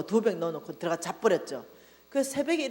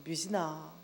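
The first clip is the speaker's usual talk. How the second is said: gentle call; 5 semitones lower, 6 dB quieter, slower than usual. Retold or imitated. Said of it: "이름을 콕 찍어서 부르시는".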